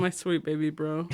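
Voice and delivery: put-on drunk crying. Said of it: "she starts drunk crying".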